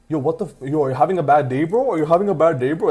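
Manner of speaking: lightly imitated Toronto accent. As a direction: do a hint of a Toronto guy's accent. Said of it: "That's his accent".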